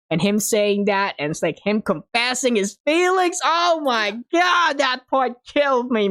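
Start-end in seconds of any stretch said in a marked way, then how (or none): 3.4-6.1 drawn-out, high-pitched fan gush; overwhelmed gushing. Real, not acted. Fan reliving the anime confession scene, overwhelmed gushing. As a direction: let the voice soar, stretching the words in awe.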